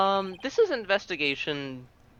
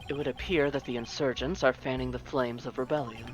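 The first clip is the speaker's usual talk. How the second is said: haughty prosecutor. Acted. Voicing prosecutor character.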